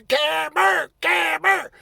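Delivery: high excited chant; cheering. Retold or imitated. Opposing team's bench cheering for the player, excited shout. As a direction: cheer the name like a crowd.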